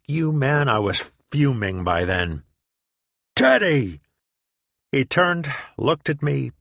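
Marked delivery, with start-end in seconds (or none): 3.3-4.0 angry call. Retold or imitated. Fuming at his friend four feet away, angry shout. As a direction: bark it out, fuming.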